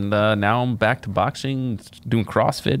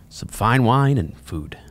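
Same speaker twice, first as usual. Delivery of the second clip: whisper; slower than usual. Real, not acted. Teasing aside about treats.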